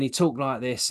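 lightly imitated East London accent; a hint of East London wide boy. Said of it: "he was a bit of a wide boy".

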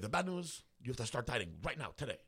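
put-on voice, high at first and quickening; Fabian. Trainer ordering a diet immediately, put-on voice. Fabian's voice delivering bad news.

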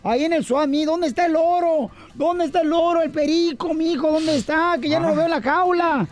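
a frantic mom searching for the gold; lightly voiced distressed mother calling her son; anguished mother. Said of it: "una mamá bien angustiada".

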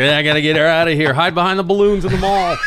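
rushing the lines like a hammed-up action lead; excited movie hero. To friends, playing himself fleeing inside the film, hammed-up urgency. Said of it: "and I'm like".

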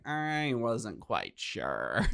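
slow, soft, drawn-out doubt; puzzled adult reader. Acted. Imitating an adult reading a children's book, slow and unsure. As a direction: stretch it out in mock bewilderment. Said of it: "when an adult reads it, is like".

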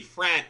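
Frent said with a hard T ending instead of D; Chicago Frent. Shown as a demonstration. Teaching cohost the Chicago Frent with a final T. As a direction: end "Frent" on a crisp T, Chicago style. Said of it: "Like F R E N T".

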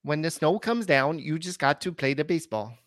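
lightly voiced Adam Sandler with a Minnesota lilt; Minnesota Adam Sandler impression. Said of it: "that was Minnesota Adam Sandler".

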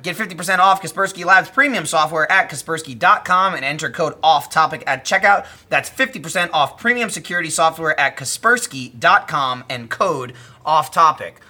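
steady, enunciated sponsor read; podcast ad read. Acted. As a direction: read out the offer and promo code.

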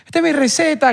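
retold shout. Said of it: "súper gritado".

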